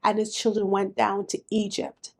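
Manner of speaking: measured, solemn Bible reading; scripture reading. Acted. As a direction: read the passage with weight and gravity.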